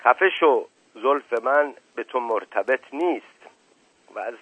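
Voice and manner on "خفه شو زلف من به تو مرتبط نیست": angry shout. Acted. Indian man yells at Shir Ali over his hair, a mild angry shout. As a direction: bite back in anger. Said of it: "فریاد زد".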